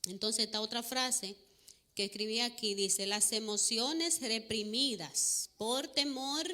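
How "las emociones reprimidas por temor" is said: reads the phrase slowly, word by word; slow it right down so each word lands; slow deliberate quote of "Las emociones reprimidas por temor"; slow emphatic reading. Shown as a demonstration. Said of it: "Voy a ir en cámara lenta".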